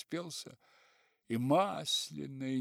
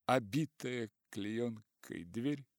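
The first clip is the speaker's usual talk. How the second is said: ordinary delivery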